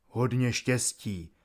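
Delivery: calm farewell. A narrator's reading. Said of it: "Díval se klidně a beze strachu".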